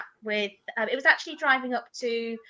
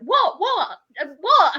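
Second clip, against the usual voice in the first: surprised what; 5 semitones higher, 5 dB louder, slower than usual. Retold or imitated. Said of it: "she went".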